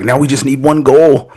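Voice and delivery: slightly high, slowed eager quote; a touch of mimicked fan eagerness; imitated excited fan. Co-host retells the Bayern fan's hopes, mildly excited imitation. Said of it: "He was all excited".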